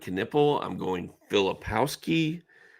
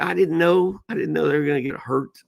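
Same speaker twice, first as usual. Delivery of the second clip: defensive dad; 8 semitones higher, 4 dB louder than usual. Retold or imitated. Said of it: "I said".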